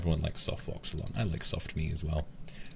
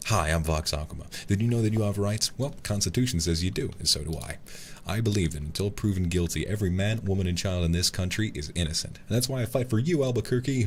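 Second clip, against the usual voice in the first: lawyer ad pitch; 3 semitones higher than usual. Acted. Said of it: "Lawyer Akuma".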